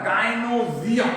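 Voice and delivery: गायनोसियम said carefully syllable by syllable, gai-no-si-yam; गायनोसियम pronounced gai-no-si-yam with a clear long ई; pronunciation demo. Shown as a demonstration. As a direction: model गायनोसियम clearly for the class, the ई sound audible. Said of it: "ई के ही कारण इसका उच्चारण होता है".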